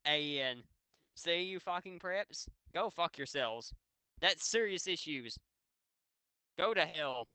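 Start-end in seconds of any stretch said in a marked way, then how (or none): 1.1-7.3 angry. Acted. Yelling at preps.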